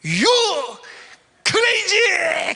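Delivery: high, loud yell; umpire's insult shout. Retold or imitated. Umpire yelling at the coach, high and loud. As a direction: call him crazy. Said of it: "그런 거야".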